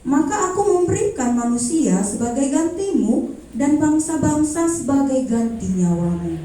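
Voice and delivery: measured Bible reading with pauses; scripture reading. Acted. A believer reading Isaiah to the interviewer, measured reading voice. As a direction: read the verse like a devotional. Reads Bible verse aloud.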